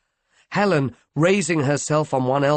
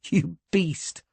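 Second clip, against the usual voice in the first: happy; 6 semitones higher, 3 dB quieter than usual. A narrator's reading. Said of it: "she said happily".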